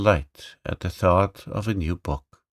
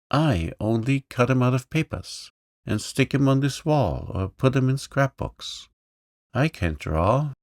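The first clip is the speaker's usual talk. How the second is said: higher-pitched, lightly voiced lame boy; meek little boy, a bit higher; young boy; 5 semitones higher than usual. Johnny's lines.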